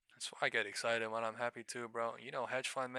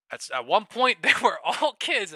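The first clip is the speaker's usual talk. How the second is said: emphatic laughing point; 8 semitones higher, 13 dB louder than usual. Real, not acted.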